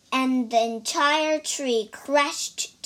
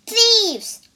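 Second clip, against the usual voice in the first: much higher, much louder outraged cry; cried out; 10 semitones higher, 9 dB louder than usual. A narrator's reading. Priest catching the pilgrims, outraged shout. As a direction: fling the word out like an alarm. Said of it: "cried the first priest".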